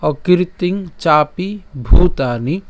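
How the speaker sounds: slow, measured reading of a Sanskrit line; careful model recitation; verse recitation. Shown as a demonstration. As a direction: recite word by word with long vowels. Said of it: "আমি আবার যদি প্রথম লাইনটা বলি".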